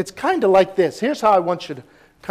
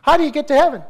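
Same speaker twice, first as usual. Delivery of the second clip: higher, eager questioning voice; lightly voiced Nicodemus, pitched up; puzzled Nicodemus; 7 semitones higher, 3 dB louder, much faster than usual. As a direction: play a confused seeker asking Jesus. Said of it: "Nicodemus came and said to Jesus".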